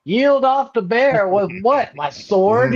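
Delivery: high, slow, disbelieving retort; mock the absurd advice; incredulous mockery. Scoffing at the caretaker's bear advice, high and slow disbelief.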